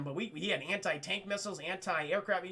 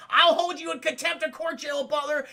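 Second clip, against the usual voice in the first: stern warning; 7 semitones higher, 7 dB louder than usual. Retold or imitated. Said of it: "Bill's like".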